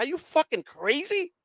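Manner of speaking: slow, high and heated, disbelief boiling over; incredulous outburst. Retold or imitated. Defendant to prosecutors, retelling his outraged protest. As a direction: rail at them like they've lost their minds. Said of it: "I told them".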